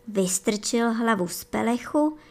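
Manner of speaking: usual speaking voice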